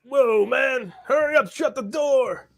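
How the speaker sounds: yelling over rushing air; cabin decompression. Acted. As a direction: shout to be heard in a howling breach. Yanked around in decompression.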